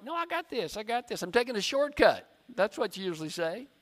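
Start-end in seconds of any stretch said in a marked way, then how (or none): 0.0-2.2 mock-confident, pitched up; lightly acted stubborn brush-off; prideful self-assurance. Driver refusing correction after a wrong turn, mock-confident. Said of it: "We have so much pride".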